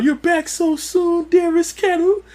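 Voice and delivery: high drawn-out falsetto welcome; put-on singsong falsetto; mock sweet greeting. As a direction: greet them in a slow, exaggerated high voice. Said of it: "talk about the way they open the door".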